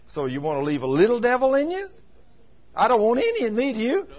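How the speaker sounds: high, loud, teasing disbelief; preacher needling the congregation, high and loud; incredulous challenge. Acted. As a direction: goad them into wanting it gone. Preacher mocking leaving a little devil.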